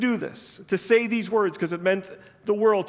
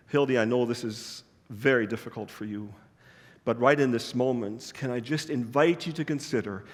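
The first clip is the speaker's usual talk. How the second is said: gentle reassurance; 4 semitones lower than usual. Retold or imitated. Pastor leans forward to comfort Hildy.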